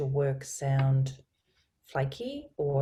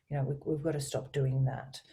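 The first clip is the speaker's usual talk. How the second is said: definite and even, low-key firmness. Shown as a demonstration. Coach repeating correction to colleague, low firm tone. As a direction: make it definite, keep it low. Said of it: "I'm using a low tone".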